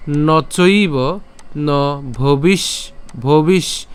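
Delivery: "ভবিষ" stopped on the final retroflex sh; slow "নচৈব ন", then "ভবিষ" cut after sh; broken-up pronunciation. Shown as a demonstration. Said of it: "মূর্ধন্য স পর্যন্ত উচ্চারণ করলাম".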